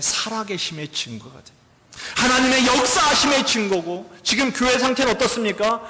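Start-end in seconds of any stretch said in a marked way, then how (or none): 2.2-5.8 full-force preaching. Real, not acted. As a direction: proclaim it to the congregation. (힘차게 설교하듯)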